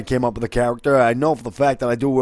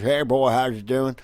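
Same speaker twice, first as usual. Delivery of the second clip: slow, lightly voiced American hick greeting. Shown as a demonstration. Voice actor recalling his other voice, light American hick accent. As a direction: draw it out like a backwater American. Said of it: "the other voice was".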